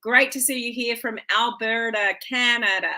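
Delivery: half-hearted mock Canadian accent on the place name; playful, badly done Canadian accent greeting a viewer; terrible Canadian accent. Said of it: "That was a terrible accent".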